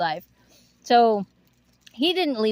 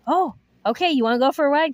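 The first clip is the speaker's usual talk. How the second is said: excited dog talk; 4 semitones higher than usual. Retold or imitated. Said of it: "And then I'd say".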